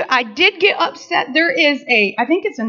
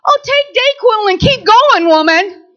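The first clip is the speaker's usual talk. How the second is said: high, loud brush-off; husband brushing off sick wife, loud; dismissive husband; 4 semitones higher, 5 dB louder than usual. Retold or imitated. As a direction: wave her off, no sympathy. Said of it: "she tries to check in".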